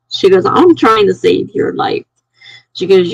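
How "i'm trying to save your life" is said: higher-pitched, mildly insistent retort; mock yell, no real volume; retold yelling back. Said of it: "she yells back at me".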